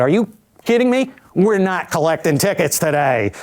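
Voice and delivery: lightly voiced exasperated New Yorker; New York accent. Amtrak woman refusing a traveller's ticket, indignant New York accent. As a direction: pitch jumps up in mock New York indignation, no real yell. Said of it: "she would yell at me today".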